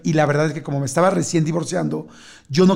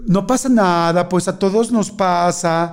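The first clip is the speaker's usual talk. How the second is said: super nice. Retold or imitated. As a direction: imitate someone soothing, stretching each phrase. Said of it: "la que digo así que super nice".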